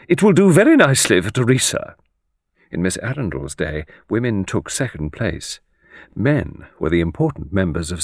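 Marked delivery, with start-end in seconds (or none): 0.1-1.9 put-on brisk old lady. A narrator's reading. Miss Arundel decides.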